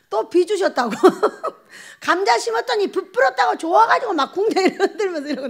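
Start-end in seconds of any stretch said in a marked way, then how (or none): 1.0-1.5 high bright laugh. Real, not acted. Laugh at child's dance. 2.0-5.5 laughing while telling. Real, not acted. Laughing as she describes dance.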